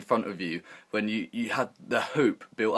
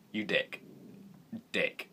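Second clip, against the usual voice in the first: muttered insult; 10 dB quieter, slower than usual. Retold or imitated.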